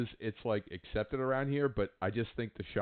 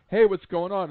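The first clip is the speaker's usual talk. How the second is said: loud, higher-pitched call from a passer-by; retold hearty greeting; 8 semitones higher, 9 dB louder than usual. Stranger greets an absorbed drone flyer from behind, hearty. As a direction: call out a casual hello, imitating him.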